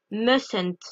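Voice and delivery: mustn't said as "mus-ent", the t of must dropped; teacher models mustn't with a silent t; mustn't without the first t. Shown as a demonstration. Teacher shows French learners how mustn't sounds, t silent. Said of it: "on ne prononce pas le T de must".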